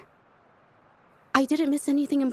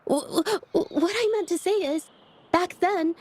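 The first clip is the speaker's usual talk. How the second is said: stammering, higher-pitched backtrack; flustered; 4 semitones higher than usual. Acted. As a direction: stumble over the start, flustered. Flustered backtrack after an intimate admission.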